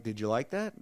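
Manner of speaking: put-on an old man asking without any fuss; quiet matter-of-fact question; calm. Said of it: "Just talking calm".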